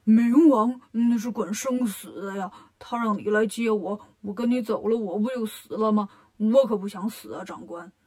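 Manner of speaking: lightly voiced pig character, pleading; Bajie, frightened pig-man. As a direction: plead for your life with mild dread.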